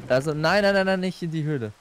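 hastiges Nein. Real, not acted. Stoppt Partner vor der Höhle.

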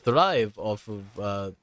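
loud, high mock protest; protesting villagers. Mocking villagers refusing community work, loud and high-pitched. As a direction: whine loudly as work-shy villagers with a Russian accent. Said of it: "they're like".

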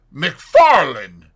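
booming herald's call; loud hail. A narrator's reading. Fetz confronts the doctor on the stairs, hailing loudly. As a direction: announce the name like a herald, not a friend. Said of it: "he said somewhat loudly".

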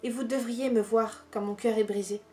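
measured poem reading with long pauses between verses; poetry reading. Acted. Reading favourite poems aloud to viewers, measured poetry recital.

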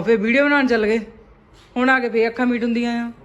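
loud exasperated scolding; dramatic loud aunty. Real, not acted. Mother loudly scolding sleepy son.

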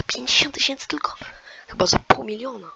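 sarcastic whisper. Real, not acted. Gamer mocking the quiz prize, whispered aside.

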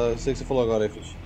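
normal talking voice

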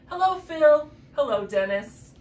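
cheery call. A narrator's reading. Bunny calling out to his bug friends, cheery. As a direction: sing out a happy greeting.

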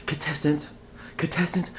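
rising ring announcer build. Acted. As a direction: hype it up like a fight announcer. Announcer voice rising each repeat.

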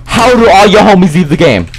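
mock them in rising, loud disbelief; taunting outcry. Real, not acted. Player mocking Jade over the lost raid, taunting outcry.

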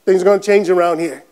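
low-pitched mock warning; imitated announcement. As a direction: lightly imitate someone laying down the law. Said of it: "somebody comes in and goes".

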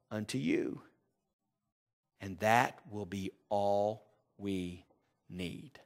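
mock self-serving version, slow and drawn out; twisted scripture. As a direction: read the verse as the world would twist it. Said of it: "to make it sound something like this".

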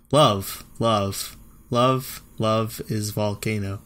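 flat, repeated deadpan; monotone reading. Shown as a demonstration. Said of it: "my monotone, uh, voice".

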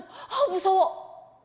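drawn-out frightened sigh; slow fearful gasp. Acted. Peter on the water feeling the wind, slowly frightened. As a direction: feel the fear creep in. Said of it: "이 생각이 드는 거예요".

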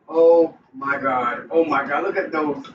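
slow drawn-out oh my God in awe; amazed. Real, not acted. Cook opening the pot to her viewers, amazed. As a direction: let the wonder stretch out. Sees finished stew in pot.

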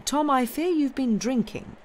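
gentle reproach, pitched high; sighed gently. A narrator's reading. Master reproving servant he thinks drunk, gently sighed. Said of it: "sighed Mister Jarvie gently".

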